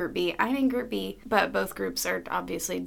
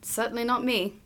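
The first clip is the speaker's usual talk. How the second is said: lightly put-on British accent; 3 semitones higher than usual. Answering the co-host about the show, British voice. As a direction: slip into a British stage voice. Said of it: "are you stuck in the British voice".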